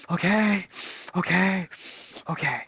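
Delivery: paced okays, stepping down in pitch; trying to calm. Retold or imitated. Flustered teacher trying to calm down, measured and descending. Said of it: "she was trying to calm down".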